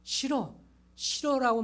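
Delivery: put-on high, rising child's refusal; a child whining no; whiny child. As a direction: mimic a stubborn kid. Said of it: "그렇게 말하면 안 되죠".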